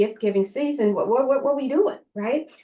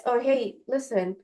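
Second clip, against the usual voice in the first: playful afterlife reviewer; 2 semitones higher than usual. Pretend. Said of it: "all you're gonna see is this".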